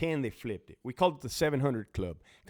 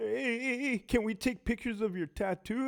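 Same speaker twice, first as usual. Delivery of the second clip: mock timid, cowering young voice; 8 semitones higher, 4 dB quieter than usual. Retelling a young co approaching a heavy hitter, imitating cowering. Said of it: "fucking young C O cowering to him".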